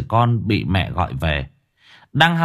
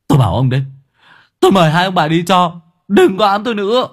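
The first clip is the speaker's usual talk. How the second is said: louder, higher fast retort; angry dismissal; 7 semitones higher, 4 dB louder, faster than usual. Acted. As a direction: tell the haunting parents to go. Kiên telling ghosts to leave. (đuổi thẳng thừng giận dữ)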